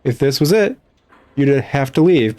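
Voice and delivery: sweetly fussy librarian, correcting you; a touch of a stern old librarian; prim old librarian. Acted. Librarian answers the player.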